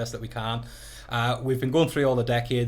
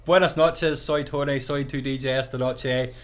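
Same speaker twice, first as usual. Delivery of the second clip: put-on slow, halting tourist Spanish with a Ballymena accent; broken Spanish; 3 semitones higher, slower than usual. DJ greeting Spanish guests over the microphone, in broken Spanish. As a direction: announce in Spanish, slowly and haltingly. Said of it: "probably very broken Spanish".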